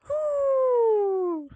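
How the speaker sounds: high, drawn-out "whew"; sigh, then a high sustained hoot; long exhaled whew. Real, not acted. Vents before resisting a spoiler.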